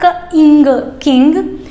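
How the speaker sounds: put-on teacher blending sounds for children. Shown as a demonstration. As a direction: blend क plus इंग into किंग. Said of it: "तो क्या हुआ?".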